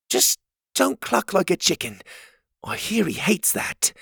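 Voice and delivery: a hint of a bright young helper; Cogleen's voice.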